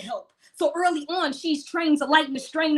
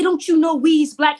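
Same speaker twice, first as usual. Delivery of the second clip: mock quote; 3 semitones higher, 5 dB louder than usual. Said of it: "He said".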